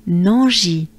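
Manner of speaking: "Nanji" as one merged French word; syllables flowed together. Shown as a demonstration. Teacher models merged syllables to learners, flowing together. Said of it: "make them flow together".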